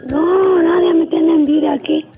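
robot voice. Real, not acted. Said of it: "¿por qué estás hablando como robot?".

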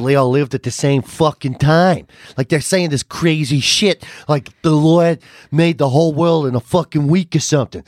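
imitating the comedian. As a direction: drag it out like a jaded storyteller. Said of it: "And he starts going".

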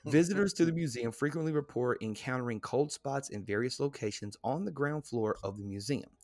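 measured guide narration, slowing at the close; read-aloud narration. Real, not acted. Host reading reported hauntings to the co-host, read-aloud narration. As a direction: read the entry out deliberately. Reads museum entry aloud.

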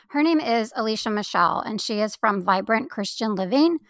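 frog in the throat; slightly hoarse, throaty rattly voice. Real, not acted. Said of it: "I have a frog in my throat today".

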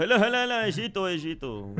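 loud calls of olha olha; hammed-up football star cover shouting; Salah impression. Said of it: "como Salah".

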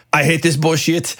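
lightly hammed-up French accent; terrible French accent. Musician quoting an angry guy from France, terrible French accent. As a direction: put on a bad French accent. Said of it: "I'm gonna do a terrible French accent".

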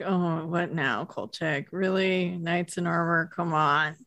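slow, sinking mock exasperation; weary exasperation. Boss hearing Kolchak's knights-in-armor theory, mildly agonized. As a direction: drag it out, lightly imitating a fed-up boss. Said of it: "see the agony on Vincenzo's face".

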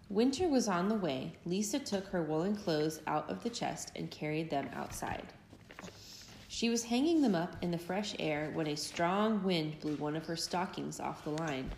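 put-on lively storybook read-aloud for little kids; gentle, animated story reading; reading to children. A narrator's reading. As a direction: tell it like a bedtime picture book. Parent reads picture book aloud.

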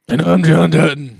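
loud mock cowboy introduction; a lightly done John Dutton; John Dutton impression. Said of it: "Kevin Costner has to sound like that".

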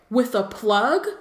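curious rising question, a hint of a friend's voice; lightly voiced Mr Weasley. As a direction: ask it like an eager wizard. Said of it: "why was that Aminata?".

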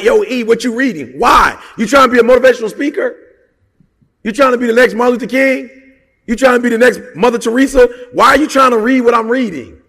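hammed-up questioning of a copycat; mock challenging. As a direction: tease them like a skeptical friend calling you out. People questioning his reading habit.

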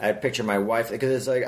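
usual speaking voice

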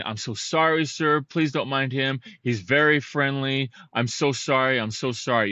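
mild mock yell, pleading with a stranger; retold apologetic calling out. Dog owner apologizing to a passer-by for his loose dog, retold calling out. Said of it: "I'm yelling this as my dog's come".

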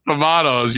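tomatoes with a broad ah in the middle; tomatoes, the British-style middle vowel; variant pronunciation. Shown as a demonstration. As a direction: say tomatoes as tuh-MAH-toes. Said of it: "Out of all the tomatoes, tomatoes".

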